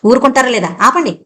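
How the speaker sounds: put-on a young woman snaps and finally shouts back; sudden shout. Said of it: "ఒక్క కేక పెట్టింది అరుణ".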